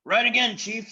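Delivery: very high, loud eager chorus; fawning followers. Acted. Followers agreeing with the chief, very high and loud. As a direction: agree with everything. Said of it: "said the others".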